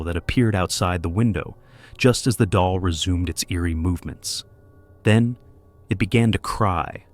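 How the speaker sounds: measured, suspenseful narrator read; eerie documentary narration. A narrator's reading. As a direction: tell it like a paranormal mystery show. Narrator recaps the haunting. (spooky storyteller narration)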